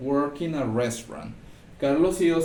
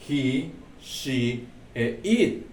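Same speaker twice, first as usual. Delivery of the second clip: slow emphasis; much slower than usual. Shown as a demonstration. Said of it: "teacher stresses the exceptions".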